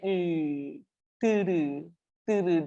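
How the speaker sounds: 으 and 들으 said with a still mouth, only the tongue moving. Shown as a demonstration. Teacher shows the class the still mouth on 들으. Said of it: "only thing that is moving is your tongue".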